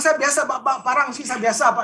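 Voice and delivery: imitating his past angry self; retold angry threat. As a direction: reenact threatening the mentor in anger. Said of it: "saya dengan emosi gitu".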